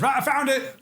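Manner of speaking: high-pitched burst of discovery; retold eureka. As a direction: call it out as a sudden find. Retold actor's sudden discovery.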